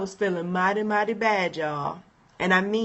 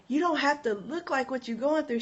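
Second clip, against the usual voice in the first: higher, softer retold reassurance; encouraging friend; 5 semitones higher, 5 dB quieter than usual. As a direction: reassure her like a loving friend.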